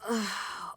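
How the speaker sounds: voiced sigh of discomfort; achy sigh. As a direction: groan out a tired sigh. Queen aching from knotted muscles.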